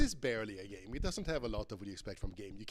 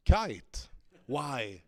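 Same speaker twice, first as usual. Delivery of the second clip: surprised; 8 dB louder than usual. Real, not acted. Surprised result in game.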